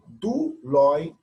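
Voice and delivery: Duloi stretched slowly and a bit loud; slow down on Duloi to show it; drawn out word. Shown as a demonstration. Teacher pointing out a plural ending slowly. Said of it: "Então, percebam".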